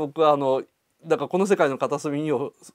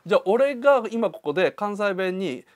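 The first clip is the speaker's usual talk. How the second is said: Kansai dialect. Shown as a demonstration. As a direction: switch into casual Kansai dialect. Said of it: "関西弁に切り替えて". (関西弁に切り替えて)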